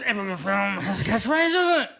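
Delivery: loud, excited film-trailer spiel; hammed-up cinema announcer; mock trailer pitch. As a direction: sell the catchphrase like a hype man. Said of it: "Excuse me, Wesley Snipes".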